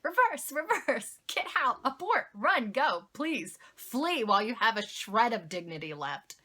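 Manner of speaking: mock-frantic alarm without real shouting; imagined panicked screaming. Cosplayer urging herself to flee in her head, mock-panicked. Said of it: "I'm screaming abort in my head".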